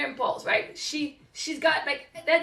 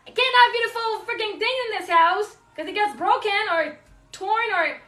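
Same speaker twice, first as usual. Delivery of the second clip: higher, louder frustrated rant; angry outburst; 5 semitones higher, 4 dB louder than usual. Retold or imitated. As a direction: vent at the broken things. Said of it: "oh, I got angry".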